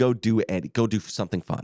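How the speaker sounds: ordinary talk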